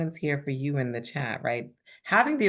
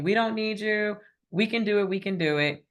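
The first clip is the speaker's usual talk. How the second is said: defiant independence; 7 semitones higher than usual. Retold or imitated. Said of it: "So we're saying".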